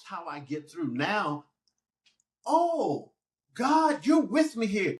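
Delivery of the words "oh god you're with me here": high, loud cry to God; a high, loud outburst of prayer; prayerful cry. Retold or imitated. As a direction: call out to God in relief. Voicing his prayer to God.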